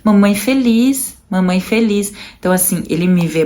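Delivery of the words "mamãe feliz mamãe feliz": lightly voiced little boy comforting mom; imitating her small son. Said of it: "ele vem". (filho pequeno consolando a mãe chorando, voz infantil mais aguda)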